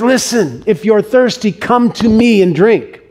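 imitating a public cry, slowing at the end. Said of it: "crying out loud".

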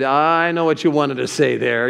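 knowing reproof. Retold or imitated. Imitating Pastor Chuck's knowing objection.

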